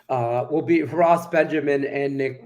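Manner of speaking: interrupted by hiccups; hiccuping mid-sentence. Real, not acted. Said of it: "I got the hiccups".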